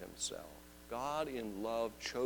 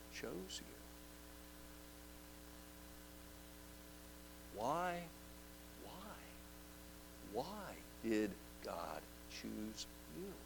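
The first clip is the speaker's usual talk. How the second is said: hushed; 16 dB quieter, slower than usual. Acted. Hushed musing on being chosen.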